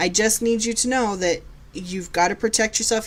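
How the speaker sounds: ordinary talk, nothing marked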